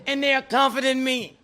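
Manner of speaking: high, loud tearful wail; hammed-up weeping; mock crying. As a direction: wail it with a laugh underneath. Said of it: "broke down and started crying".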